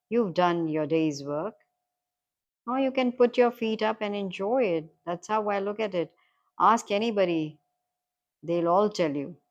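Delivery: lightly acted matey encouragement; hint of a cheery character urging enjoyment; gently rousing advice to a new acquaintance; encouraging stranger.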